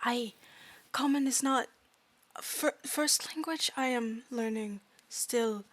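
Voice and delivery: halting broken English, trailing off softly; fairy struggling with a second language; apologetic fairy student. Acted. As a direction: take the blame in careful, simple words.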